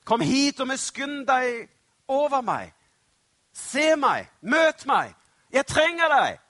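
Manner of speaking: desperate, high-pitched pleading shout; loud imploring yell, building to the end. Acted. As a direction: cry out with everything you have. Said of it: "roper bare enda høyere".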